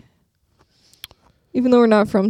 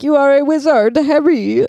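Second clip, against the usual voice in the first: louder, higher send-up of a bad impression; mocking imitation; 3 semitones higher, 4 dB louder than usual. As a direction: poke fun at the stilted delivery. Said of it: "'Cause I made fun of it".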